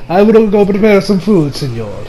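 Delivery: lightly put-on Italian accent. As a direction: excuse yourself as an Italian chef, in accent. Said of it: "I'm going to talk with an Italian accent".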